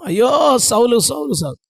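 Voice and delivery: retold mourning cry; mock weeping. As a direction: wail a name half-heartedly, fading. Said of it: "సౌలుని దేవుడు వదిలేసినందుకు ఏడుతున్నాడు".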